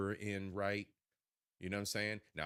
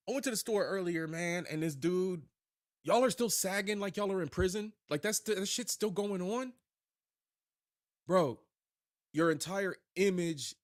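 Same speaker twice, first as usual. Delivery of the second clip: raised, loud and fired up at the sagging; loud rant; 9 semitones higher, 5 dB louder than usual. Real, not acted. Streamer ranting at a guy sagging his pants, loud and exasperated. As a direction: call it out loudly, exasperated.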